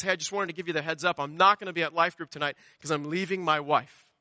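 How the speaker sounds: breezy, offhand, quick delivery; nonchalant, matter-of-fact retelling; casual. Retold or imitated. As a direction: toss it off like ordinary news. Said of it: "It was about that casual".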